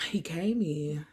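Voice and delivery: whispered aside, barely voiced; hushed. Real, not acted. To listeners, telling when he came home: whisper. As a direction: drop to a whisper for this bit.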